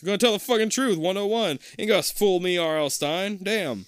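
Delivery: high, loud defiant rant; loud indignant. Real, not acted. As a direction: call out the author. Yelling at the book.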